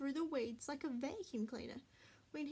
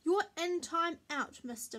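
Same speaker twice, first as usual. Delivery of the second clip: louder, punchy telling-off; stern order; 4 semitones higher, 7 dB louder than usual. A narrator's reading. Mummy sends Marley to time out, stern ordering. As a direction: order a naughty dog off, firmly. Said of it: "Mummy ordered".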